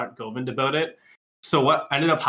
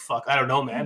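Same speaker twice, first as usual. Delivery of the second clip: put-on stressed voice. Retelling how a roommate answers a problem: imitating Scott, stressed. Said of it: "you know how Scott's like".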